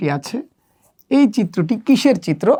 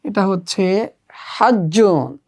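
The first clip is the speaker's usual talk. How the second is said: slow model answer; slower than usual. Shown as a demonstration. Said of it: "এভাবে চিত্র দেখে দেখে আরবি বলা শিখতে হবে".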